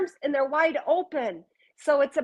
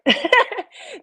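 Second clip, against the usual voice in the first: laugh; 11 semitones higher, 6 dB louder than usual. Real, not acted. Laugh after a reading line.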